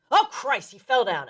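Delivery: mild retold cry of alarm, pitched high then dropping; alarmed outburst. Mother on the phone as father falls, mock alarm. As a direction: imitate a startled exclamation, not shouted. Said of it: "all of a sudden she goes".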